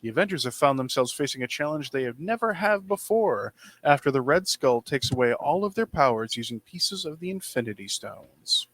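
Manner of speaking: booming fighting game announcer read. Acted. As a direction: hype it like an arena announcer. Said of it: "let me do my best announcer voice here".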